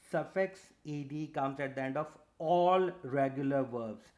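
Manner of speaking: "all" stressed, then "regular verbs" set out firmly; emphatic repetition. Real, not acted. Teacher restating the rule for students, with emphasis on "all". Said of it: "laying emphasis on this term".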